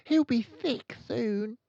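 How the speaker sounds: put-on high, slow, lightly hushed child voice; hushed girl. A narrator's reading. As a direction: answer doubtfully. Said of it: "Lavender whispered back".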